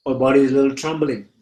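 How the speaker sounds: unhurried meditation teacher with long pauses; guided meditation. Real, not acted. Teacher guiding listeners to feel fear in the body, meditative.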